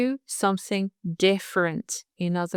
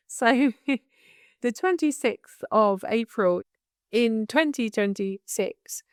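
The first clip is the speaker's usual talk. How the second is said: laughing; 3 semitones higher than usual. Real, not acted. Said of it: "I'm just laughing".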